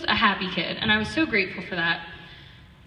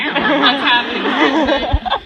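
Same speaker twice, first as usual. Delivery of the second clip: imitating dad; 5 semitones higher, 10 dB louder, slower than usual. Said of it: "He's like".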